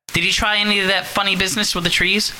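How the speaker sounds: high, fretful mother on the phone; worried mother. Acted. Mother phoning her daughter, high and anxious. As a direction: fuss anxiously over your daughter.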